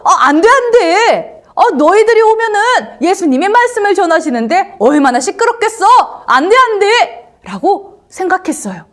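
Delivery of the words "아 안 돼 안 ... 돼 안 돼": high, loud, fretful refusal; high-pitched fluster, for a children's story; flustered objection. Acted. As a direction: act out fussy alarm at noisy kids coming. Disciples voiced shooing children away.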